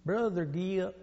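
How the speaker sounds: put-on soft, drawled Southern accent; Southern gentleman. Southern gentleman greeting a Bible college classmate, drawled Southern accent. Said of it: "there was a sweet Southern gentleman".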